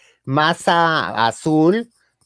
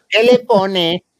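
brisk vendor asking what to add; vendor's question; 4 semitones higher, 5 dB louder, much slower than usual. Retold or imitated. Tlacoyo vendor asking customer, lightly voiced. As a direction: ask like the stall lady. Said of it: "Y decía".

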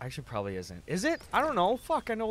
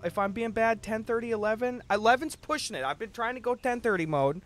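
high whiny defense; mock defensive; 9 semitones higher than usual. Real, not acted. Streamer defending his late sleeping to chat, high and whiny. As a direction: plead your case in a high put-upon voice.

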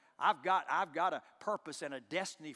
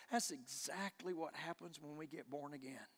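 inner thought; 3 semitones lower, 6 dB quieter than usual. Retold or imitated. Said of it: "I thought to myself".

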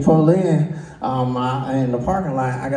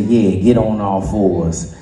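slow command; 5 semitones lower, slower than usual. Retold or imitated. Woman's command acted, slow.

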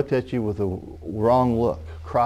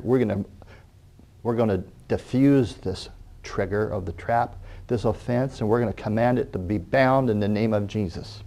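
closing prayer; 2 semitones lower than usual. Real, not acted. Preacher prays over the congregation, earnest and fading. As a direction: pray over the congregation with conviction.

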